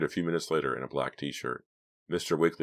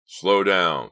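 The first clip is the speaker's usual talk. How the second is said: urgent loud shout, raised pitch; 4 semitones higher, 10 dB louder than usual. A narrator's reading. Partner in crime spotting police, urgent shout. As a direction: shout a warning to the driver. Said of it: "Clay shouted to Pam".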